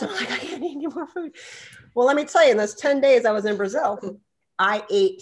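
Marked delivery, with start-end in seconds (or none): 0.3-1.3 high, quick little voice; mock helpless plea. Overfed guest pleading with laughing hosts, mock helpless squeak. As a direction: squeak out a hurried, helpless excuse. Acted plea to refuse food.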